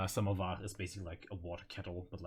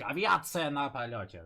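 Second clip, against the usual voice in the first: higher, louder mock battle cry; imitated scream; 5 semitones higher, 5 dB louder than usual. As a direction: imitate a screamed aircraft warning. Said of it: "this certain aspect of screaming".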